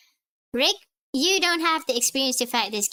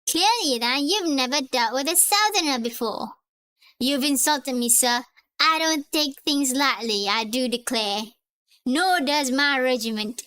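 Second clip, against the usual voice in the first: bad Texan accent. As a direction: do a badly faked Texan Southerner, affronted. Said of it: "Terrible Texan accent. I'm sorry if I butchered it".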